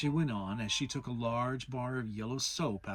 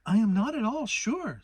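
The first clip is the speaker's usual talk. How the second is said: thoughtful; 8 semitones higher, 8 dB louder than usual. A narrator's reading. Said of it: "said Kanga in a thoughtful voice".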